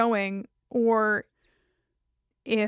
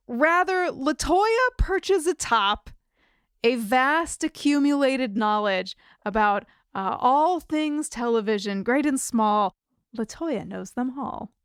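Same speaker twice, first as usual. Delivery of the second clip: storybook narration. Acted. Fantasy scene-setting continued.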